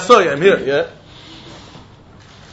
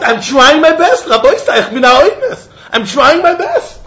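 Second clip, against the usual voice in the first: higher, slow, laughing plea; mock pleading; 5 semitones higher than usual. Man arguing with the rabbi, laughing mock plea. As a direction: beg that you did your best.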